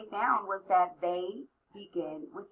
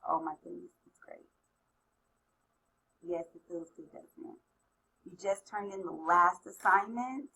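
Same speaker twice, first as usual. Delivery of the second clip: guided visualization. Acted. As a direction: gently lead them to imagine.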